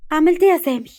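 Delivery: high, urgent question; eager, alert. A narrator's reading. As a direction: ask keenly for news. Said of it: "دهب بسرعة وانتباه". (سؤال بلهفة وانتباه)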